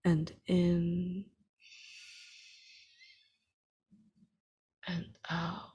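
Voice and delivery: measured, unhurried meditation guide with long pauses for breath; guided meditation. Real, not acted. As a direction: lead listeners steadily through each breath and image.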